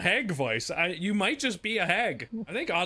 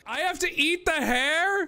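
laughing disbelief; 11 semitones higher, slower than usual. Real, not acted. Disgusted at eating hair.

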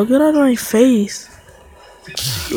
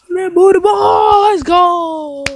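hype shout; 6 semitones higher than usual. Real, not acted. Hyped after a kill.

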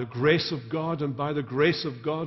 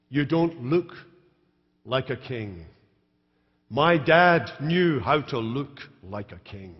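scornful; 4 dB louder than usual. Acted. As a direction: look down on him as you speak. Michal's scorn voiced again.

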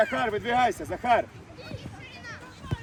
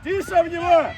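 loud, raised pitch-side shout; calling out; 3 semitones higher, 4 dB louder than usual. Real, not acted. Coach steering a player into a challenge, loud call. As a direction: shout instructions across the field.

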